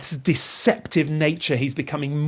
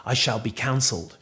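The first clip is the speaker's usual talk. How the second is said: a hint of character, sinking lower and softer; lightly voiced Banquo; 4 semitones lower, 4 dB quieter than usual. Banquo answering Macbeth's offer of honour, lightly voiced and sinking softer. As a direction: quote it lightly in role, easing down low. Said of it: "look how Banquo responds".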